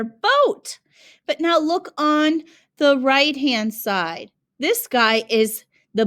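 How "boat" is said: high excited call, much higher; mock shout. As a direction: call out across the water, hammed up. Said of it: "he's shouting out here".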